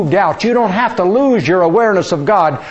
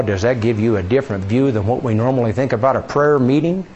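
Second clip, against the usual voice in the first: ordinary talk, nothing marked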